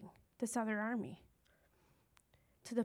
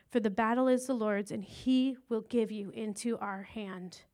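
louder, ringing Bible reading; forceful scripture reading; 3 dB louder than usual. Acted. David answering Goliath, read out with rising force. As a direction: proclaim it like a battle cry.

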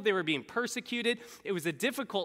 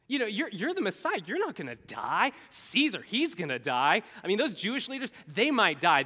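agitated mock protest with jumping pitch, growing louder; blunt rebuke; 3 dB louder than usual. Peter pulls Jesus aside to correct him, blunt rebuke. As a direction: argue him out of it in exasperation. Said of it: "he straight up rebukes him".

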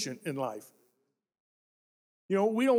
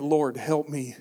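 quiet prayer; 7 semitones lower than usual. Acted. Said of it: "We should all be praying".

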